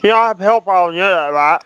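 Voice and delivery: talking through food; mouth full. Real, not acted. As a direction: speak around a mouthful. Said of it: "Now you have food in your mouth".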